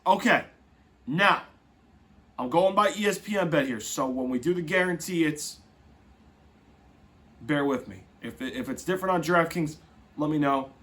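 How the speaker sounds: ordinary talk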